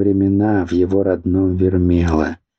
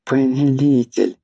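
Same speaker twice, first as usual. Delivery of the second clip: pleading call; 7 semitones higher than usual. Acted. First call to master.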